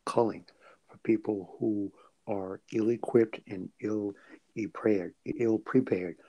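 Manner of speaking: careful, measured statement; choosing words carefully. Real, not acted. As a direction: pick each word with care. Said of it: "Let me choose my words carefully".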